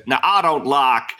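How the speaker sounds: put-on American accent. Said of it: "my American accent".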